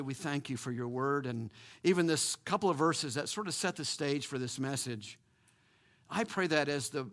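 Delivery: earnest pastoral prayer voice; closing prayer. Acted. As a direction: pray over the congregation.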